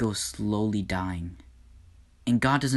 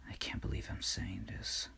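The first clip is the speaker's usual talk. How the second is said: much softer, whispered aside; reluctant whisper; 13 dB quieter than usual. Acted. God admitting he wants Lucifer brought, whispered. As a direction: mutter it under your breath unwillingly.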